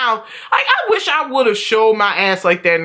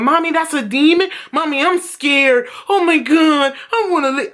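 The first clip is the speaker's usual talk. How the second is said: higher, lightly voiced frightened child; mock a kid whimpering at a horror film; scared kid; 5 semitones higher than usual.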